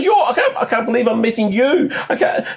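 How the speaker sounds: a starstruck fan who can't believe it; freaking out. Retold or imitated. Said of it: "she's freaking out".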